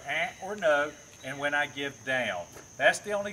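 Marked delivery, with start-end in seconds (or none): 0.1-0.3 short, sharp warning grunt to the dog; a firm no-nonsense eh; sharp correction. Shown as a demonstration. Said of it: "Also notice the tone of my voice". 0.6-0.9 a firmer, slightly louder correcting no; stern dog-trainer no. Shown as a demonstration. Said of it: "Also notice the tone of my voice".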